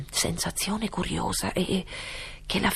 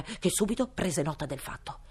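ordinary delivery, nothing marked

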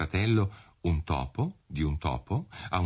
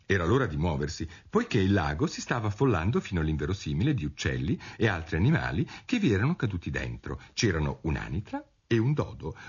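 ordinary delivery, nothing marked

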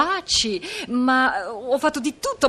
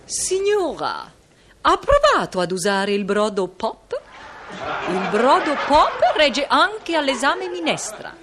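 ad read. Acted. Diva performs a stock-cube ad.

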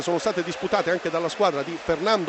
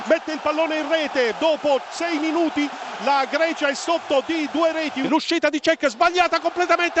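rising, excited play-by-play goal call; breathless italian goal commentary; 5 semitones higher than usual. Acted. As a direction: call the goals as they happen, breathless. Live goal commentary, Greece concede. (telecronaca concitata del gol)

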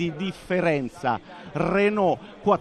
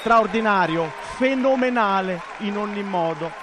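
excited; 2 semitones higher, 3 dB louder than usual. Real, not acted. Praising the silver medal.

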